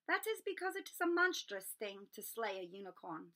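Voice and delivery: a wise creature giving a dark warning; solemn centaur. Acted. Centaur Firenze warns Harry about unicorn blood, solemn and grave.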